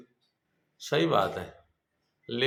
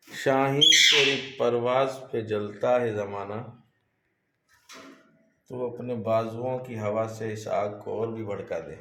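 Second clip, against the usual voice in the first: reciting a couplet; 3 semitones lower than usual. Acted. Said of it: "किसी ने बड़ा अच्छा शेर कहा है".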